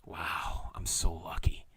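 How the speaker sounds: breathy hushed whisper of disbelief; stunned whisper. Retold or imitated. Hearing a same-age patient died, whispering in shock. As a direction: whisper it, shaken by the news. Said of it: "And I'm like".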